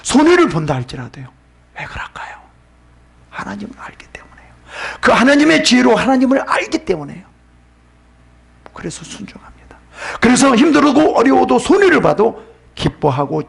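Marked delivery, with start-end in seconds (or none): 1.8-4.5 hushed, intimate aside; whispered question and answer. Real, not acted. Preacher asks and answers softly. 8.7-9.8 sudden hushed drop; barely voiced resolve; whispered conclusion. Real, not acted. Preacher concludes softly.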